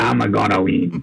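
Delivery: rough, creaky, growling cartoon villain voice. Describing a game's villain father, delivering his line in a Wario voice. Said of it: "is just Wario".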